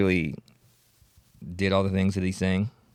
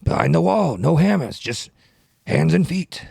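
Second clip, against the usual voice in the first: loud, high-pitched mock senator rap; Bernie Sanders impression; 7 semitones higher, 5 dB louder than usual. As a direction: belt it out as a hammy old politician. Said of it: "keep doing it as Bernie Sanders".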